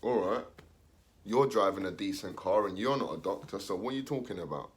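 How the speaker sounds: put-on unconvinced teen, muttering; sceptical kid. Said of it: "Your kid's thinking".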